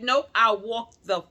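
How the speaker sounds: loud, high, furious no; indignant loud refusal; retold angry refusal. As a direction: shout down the doctor's idea. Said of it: "I got mad. I was pissed".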